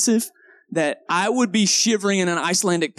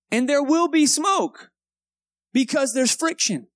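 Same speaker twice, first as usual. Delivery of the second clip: raised, emphatic preacher's pitch; higher-pitched, insistent sermon delivery; preaching; 6 semitones higher than usual. Real, not acted. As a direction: drive the lesson home to the congregation. Preacher drives home the lesson.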